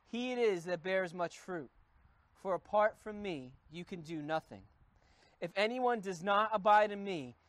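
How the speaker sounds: measured reading of the Bible passage; solemn Bible reading; scripture reading. Acted. Reads scripture aloud.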